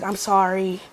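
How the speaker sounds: hushed and sheepish; small, quiet apology. Retold or imitated. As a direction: imitate a meek, chastened apology. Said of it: "Everything got quiet".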